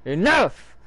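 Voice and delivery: acted angry outburst, rising to a shout; riled-up. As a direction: land 'enough' high and loud. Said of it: "he's mad. He's getting riled up".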